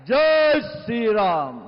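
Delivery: slow, loud rally call; roaring rallying speech. Real, not acted. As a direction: roar it out to the crowd. Speaker slogan chant. (गरजता हुआ नारा)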